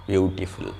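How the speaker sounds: বিউটিফুল stretched over its three syllables. Shown as a demonstration. Teacher showing three mouth movements, বিউটিফুল syllable by syllable. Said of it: "এই তিনবার নড়ছে".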